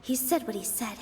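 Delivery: soft, inward thinking voice; hushed inner monologue. Acted. Nilou doubting herself during the debate, hushed inner voice. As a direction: talk it over quietly with yourself.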